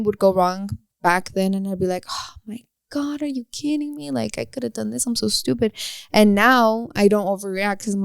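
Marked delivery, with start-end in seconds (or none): 2.1-5.7 mock overreaction. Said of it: "I'm not an overreactor anymore".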